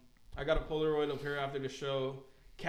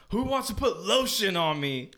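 higher, louder call to the crowd; imitated rapper; 4 semitones higher, 5 dB louder than usual. Opener calls into the pit for lotion, imitated showman. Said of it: "and he's like".

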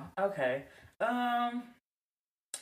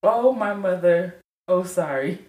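put-on Nigerian accent; 11 semitones lower than usual. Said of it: "I hear your African accent".

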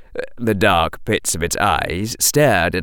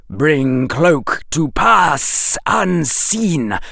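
slow, higher voice of a secretive snake; hissing snake; 7 semitones higher, slower than usual. A narrator's reading. Snake hissing a secret code to Harry, slow and higher. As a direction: lay it out slowly like a serpent.

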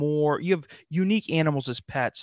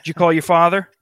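a loud, nagging demanding partner voiced as a cat; 4 dB louder than usual. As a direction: hound him like a disappointed spouse. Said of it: "they look at you and they go".

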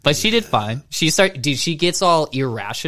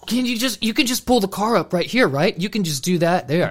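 high-pitched mock pleading; a hint of a wheedling wife; imitated pleading wife; 7 semitones higher than usual. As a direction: lightly put on a higher voice for the wife. Voices tired wife pleading for car.

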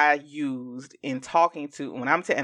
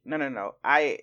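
normal talking voice

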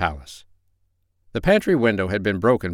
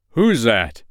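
louder, sudden challenge; startled awake; 3 semitones higher, 6 dB louder than usual. A narrator's reading. King hears a cough under the bed, startled demand. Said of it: "sat up wide awake and said".

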